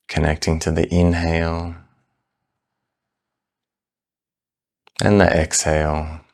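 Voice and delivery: calm, unhurried meditation guidance with long pauses; measured, soothing meditation-teacher delivery; guided meditation. Real, not acted. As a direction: ease them gently into the practice, leaving space between phrases. Leads a breath meditation.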